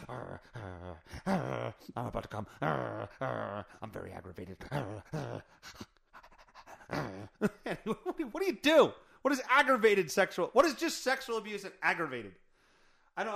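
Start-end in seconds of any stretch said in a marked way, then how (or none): 0.1-7.1 low, soft mock growling; growling arr. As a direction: growl each arr like a grumpy pirate. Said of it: "do you growl?".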